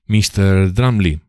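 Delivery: slow, pointed, angry address; restrained anger. A narrator's reading. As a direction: bite off his name. Narrator confronts rival.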